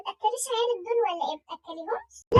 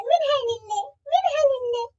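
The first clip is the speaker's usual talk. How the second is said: tearful curse; 2 semitones higher than usual. Acted. Crying curse.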